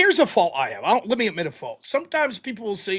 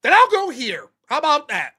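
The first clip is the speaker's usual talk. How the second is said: mock combative retort; 3 semitones higher, 4 dB louder than usual. Retorting at the line.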